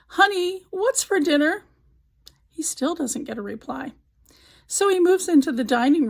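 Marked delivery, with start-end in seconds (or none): 0.1-1.6 yelling across the house. Retold or imitated. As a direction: call out to a wife in another room. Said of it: "and hollers".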